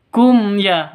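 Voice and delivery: KUM YA with clear m going straight into ya; joined directly. Shown as a demonstration. Teacher showing izhar syafawi, KUM YA clear and joined. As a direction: say KUM YA connected, both letters clear.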